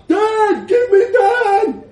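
loud, high, slow laughing yell; a drunk man yelling for a girl, laughing; shout. Acted. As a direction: bellow the name through laughter. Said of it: "he shouted".

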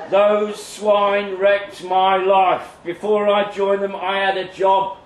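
bitter cult survivor. Acted. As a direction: spit out the grudge against the cult. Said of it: "Eric Jones, self-styled cult survivor".

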